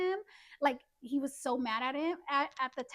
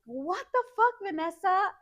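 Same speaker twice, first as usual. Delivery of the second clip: mild mock yell, raised pitch; retold angry yell; 4 semitones higher, 3 dB louder than usual. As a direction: imitate his angry outburst, drawn out. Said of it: "And he starts yelling".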